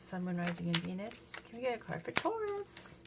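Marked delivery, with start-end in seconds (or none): 1.5-3.0 much higher, lilting request; high-pitched plea. Real, not acted. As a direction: lift the whole question up high. Same request sung out high.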